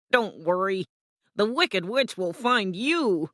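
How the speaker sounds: lightly voiced guardian with a knowing lilt; amused gate guardian. Guardian warns Dorothy, lightly voiced mock reassurance. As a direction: warn her with a touch of mockery.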